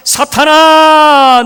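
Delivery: stern rebuke. Acted. Jesus turning on Peter, a loud drawn-out rebuke. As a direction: rebuke him with full force.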